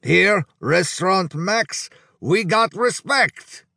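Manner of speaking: put-on high, slow, delighted accented praise; brightened Hungarian. A narrator's reading. Hungarian suddenly brightening to praise the restaurant, delighted. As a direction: proclaim it slowly in a thick Hungarian accent. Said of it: "His expression suddenly brightened".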